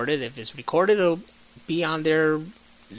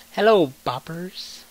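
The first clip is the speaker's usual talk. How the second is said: radio DJ voice; 4 semitones higher, 5 dB louder, slower than usual. Retold or imitated. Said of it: "the freaking radio girl from the Warriors".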